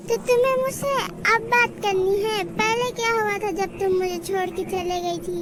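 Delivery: cold, low reproach; bitter reproach. Acted.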